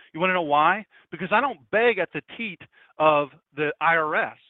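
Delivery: loud defiant pulpit cry; defiant shout. Real, not acted. Pastor defying the IRS from the pulpit, shouting. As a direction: hurl it at the IRS.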